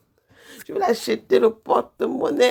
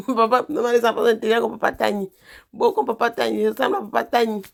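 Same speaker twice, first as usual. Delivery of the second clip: laughing praise; 2 semitones higher, 3 dB louder than usual. Real, not acted.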